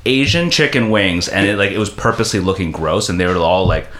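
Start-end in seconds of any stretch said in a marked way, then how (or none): 0.0-1.3 high, sing-song hostess voice; sweetly mocking host offering food; teasing sweet voice. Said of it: "she's like".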